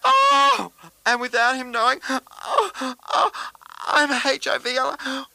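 gasping, then high, crying wails; sobbing confession. Acted. A friend confessing his HIV diagnosis to Ella, sobbing. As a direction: break down as the news spills out.

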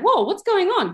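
lifted curious voice of a friendly family; curious whoa. Retold or imitated. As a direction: ask it with wide-eyed curiosity.

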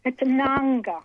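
"Nanga" said NAHNG-guh, stress on first syllable; Aboriginal word pronunciation. Shown as a demonstration. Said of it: "show us how you do it".

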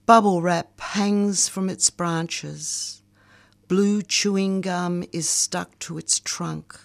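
slow, measured poetry recital; poem reading. Acted. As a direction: read it like a spoken-word poem. Reads her poem aloud.

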